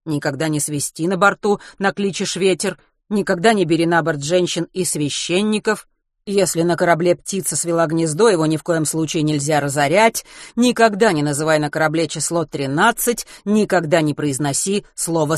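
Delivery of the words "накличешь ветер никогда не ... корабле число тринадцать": plain reading voice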